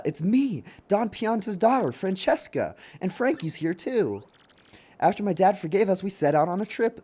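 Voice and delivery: put-on high, chatty young bride; Don Pianta's daughter.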